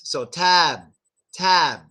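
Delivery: tab ending on closed lips; tab, b unreleased. Shown as a demonstration. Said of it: "soon as your lips close".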